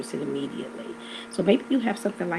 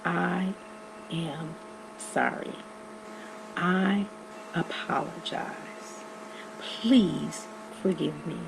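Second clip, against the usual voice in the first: slow, hushed heartfelt apology; sincere apology; 5 dB quieter, much slower than usual. Shown as a demonstration. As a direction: say it softly, meaning every word. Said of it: "you need to say the words".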